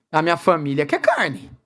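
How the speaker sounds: low, whiny plea sliding up then down; a father pretending to sob to his leader; mock tearful complaint. Father complaining to the people's leader, mock tearful. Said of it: "chega pra você e chorando".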